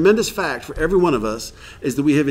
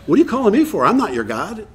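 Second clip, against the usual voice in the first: mock exasperation; 6 semitones higher than usual. Sponsor to a caller, higher, half-joking exasperation. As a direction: brush him off with a laugh. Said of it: "Go, go talk to God".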